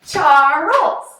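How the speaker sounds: "Charles" stretched loudly into Char-les, two beats; loud, drawn-out "Charles" in two parts; syllable by syllable. Shown as a demonstration. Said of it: "Let's do that one more time".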